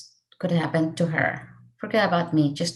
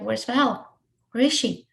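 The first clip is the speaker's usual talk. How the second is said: frantic asking; 4 semitones higher, slower than usual. Real, not acted. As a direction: call out for her in a panic. Frantic search in emergency room.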